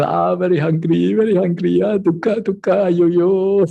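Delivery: high, whining complaint of hunger; mock-pitiful groan of hunger; whiny hungry monk. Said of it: "like that".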